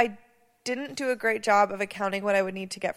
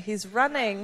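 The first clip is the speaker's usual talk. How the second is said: play-by-play. Pretend. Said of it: "I'm gonna give a play-by-play".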